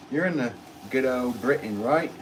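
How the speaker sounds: badly faked Cockney, playfully put on; horrible Cockney accent. Potter teasing a British viewer in chat, horrible Cockney accent. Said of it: "that's a horrible Cockney accent".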